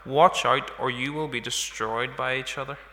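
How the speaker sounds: measured Bible reading aloud to the congregation; scripture reading. Acted. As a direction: read the passage as scripture, steady and even. Reading the Galatians passage aloud.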